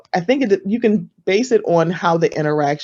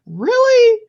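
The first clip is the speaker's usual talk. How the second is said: very high, louder questioning squeal; mock disbelief; 5 dB louder than usual. Reacting to an introverted podcast host, high-pitched disbelief. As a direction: shoot the pitch right up in surprise.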